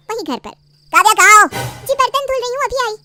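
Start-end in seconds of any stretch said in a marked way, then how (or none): 0.9-1.5 loud shout across the house; calling out. Acted. Husband loudly calling for his wife. 1.9-2.9 higher, timid reply; meek wife. Acted. Wife meekly answering from the dishes.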